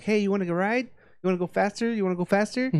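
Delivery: high, teasing come-on; lightly voiced smooth talker. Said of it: "go around to the girls and be like".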